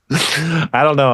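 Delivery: a helpless laugh, slow. Real, not acted. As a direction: laughs it off slowly. Laughing at own bleak situation.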